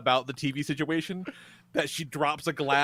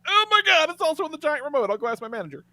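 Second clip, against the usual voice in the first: frazzled waitress; 10 semitones higher, faster than usual. Retold or imitated. Waitress flustered by the TV request, high and rushed. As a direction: play the waitress panicking over the remote. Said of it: "And she was like".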